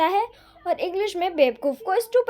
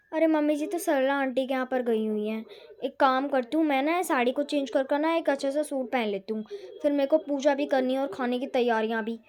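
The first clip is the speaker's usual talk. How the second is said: lower, softer grumbling aside; lower, soft complaining aside to herself; muttering to herself; 5 semitones lower, 7 dB quieter than usual. Acted. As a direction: grumble under your breath alone. Bahu grumbles to herself alone.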